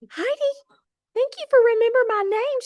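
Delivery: high, fast and tearful, almost crying; teary starstruck gush. Retold or imitated. Starstruck rep thanking the top director, voice high and teary. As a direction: gush your thanks on the edge of tears. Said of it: "And I'm like".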